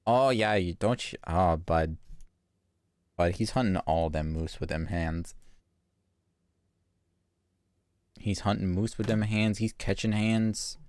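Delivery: mild hammed-up cliché Canadian accent. Streamer giving Puck a cliché Canadian accent, mildly done. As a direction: lean lightly into the Canadian, bud. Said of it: "I'll have to dial up my Canadian".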